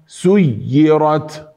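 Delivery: سيرت with a held double y; correct shadda. Shown as a demonstration. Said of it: "يوجد شد عليها". (سيرت بياء مشددة)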